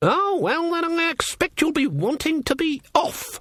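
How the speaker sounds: very high, knife-sharp, razor-edged cutting voice. Narrator voicing Granny's reply to a witch who wants to leave: voice like knives. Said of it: "her voice like knives".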